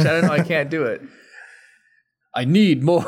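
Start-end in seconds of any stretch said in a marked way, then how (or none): 2.3-3.0 abandoned attempt at an actor impression; half-hearted celebrity mimicry; Christopher Walken. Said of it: "let's hear your Christopher Walken".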